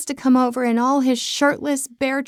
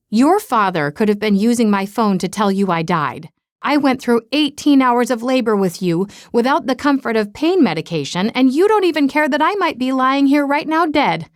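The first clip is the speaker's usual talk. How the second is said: dramatic mother; 3 dB louder than usual. Retold or imitated. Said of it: "My mother's overly dramatic voice".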